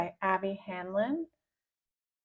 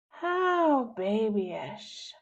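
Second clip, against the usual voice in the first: mocking laugh; much slower than usual. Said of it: "laughs the voice".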